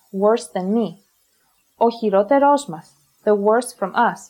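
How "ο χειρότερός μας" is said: "χειρότερός μας" stressed on ρό and ρός; "μας" unstressed after stressed ρός; double stress. Shown as a demonstration. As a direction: join "χειρότερός μας", hitting both accents. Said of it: "can also cause enklisis".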